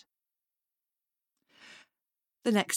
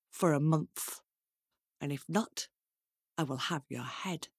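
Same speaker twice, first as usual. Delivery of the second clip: king's threat; 4 semitones lower than usual. Acted. King threatens the girl in story.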